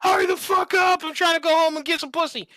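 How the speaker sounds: irate driver behind, shrieking high; angry long honk. Retold or imitated. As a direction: lean on the horn and scream at them. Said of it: "It's that long-winded, like".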